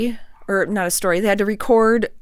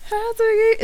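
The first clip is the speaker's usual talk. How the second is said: talking to a dog; 14 semitones higher than usual. Real, not acted. Greeting the dog.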